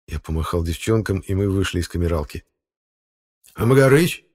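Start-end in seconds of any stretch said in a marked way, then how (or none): 3.5-4.2 hurt, higher and louder question; offended. A narrator's reading. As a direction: sound wronged. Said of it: "обиженно спросил".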